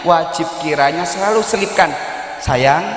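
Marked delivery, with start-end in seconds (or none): 2.4-2.9 tender calling. Shown as a demonstration. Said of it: "panggil kalimat yang terindah".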